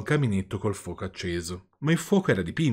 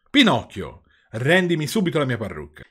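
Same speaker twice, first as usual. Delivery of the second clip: stern demand; 4 semitones higher, 5 dB louder than usual. Acted. Geppetto demands his wig back.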